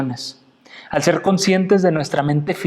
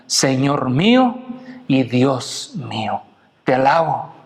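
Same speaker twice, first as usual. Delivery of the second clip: slow, reverent declaration dropping lower; Tomás's exclamation; 3 semitones lower, slower than usual. Retold or imitated. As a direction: confess it slowly in worship, without shouting. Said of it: "exclamemos como Tomás exclamó". (exclamación reverente y pausada)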